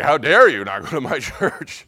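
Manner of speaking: hammed-up angry protest; retold rage. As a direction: re-enact an indignant outburst. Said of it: "rage. I felt this anger".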